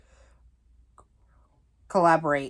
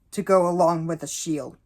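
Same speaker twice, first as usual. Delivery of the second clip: voice cracking. Real, not acted. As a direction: voice cracks mid-phrase. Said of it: "sorry, voice crack".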